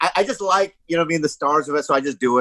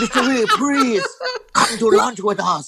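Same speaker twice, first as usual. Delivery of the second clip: mock Asian accent; 7 semitones higher than usual. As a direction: imitate the director's racist Asian accent, laughing. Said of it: "doing an Asian accent".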